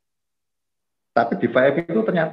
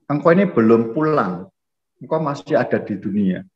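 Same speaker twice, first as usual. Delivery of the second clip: measured, lightly acted divine reassurance; voice of Jesus; 2 semitones higher than usual. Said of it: "Tuhan bilang apa? Yesus".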